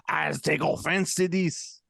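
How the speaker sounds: mock Belgian listener. Host teasing the one Belgian listener, mock-offended impersonation. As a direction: imitate an affronted Belgian, drawn out. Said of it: "our one Belgian listener will be like".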